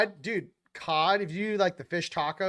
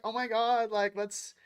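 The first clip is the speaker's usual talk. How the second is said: gushing; 4 semitones higher than usual. Retold or imitated. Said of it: "be like".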